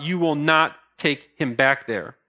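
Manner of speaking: slow, deliberate weight on "not"; firm slow command, pausing after "not"; emphatic. Retold or imitated. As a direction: spell it out slowly, leaning on "not". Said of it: "he's emphatic to his servant".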